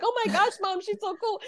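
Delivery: high-pitched fangirl gush, imitated; acted starstruck squeal; imitating excited daughter. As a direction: mimic a thrilled daughter gushing to her mom. Voices her excited daughter.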